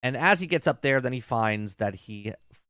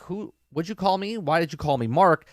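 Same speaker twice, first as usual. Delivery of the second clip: higher-pitched mock confusion; retold bewilderment; 4 semitones higher than usual. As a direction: question it, imitating someone baffled. Retells character's confused questioning.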